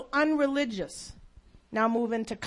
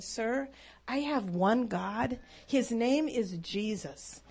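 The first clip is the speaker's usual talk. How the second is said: tearful; 5 dB quieter, slower than usual. Retold or imitated. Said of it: "with tears in my eyes".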